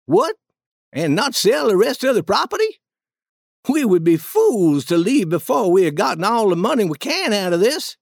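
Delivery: mildly indignant king, starting high; a touch of disbelief, leaping up on the opening word; incredulous objection. Acted. King balking at the duke's plan to leave, mildly incredulous.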